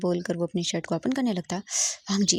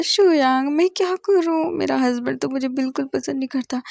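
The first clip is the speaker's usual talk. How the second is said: put-on drunk sad wail; 5 semitones higher, 4 dB louder than usual. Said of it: "बहुत ही sad हो जाता है". (ऊँची, धीमी, नशे में रोती आवाज़)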